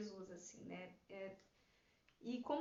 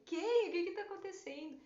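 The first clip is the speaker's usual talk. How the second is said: husband confused; 7 semitones higher, 4 dB louder than usual. Retold or imitated. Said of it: "daí".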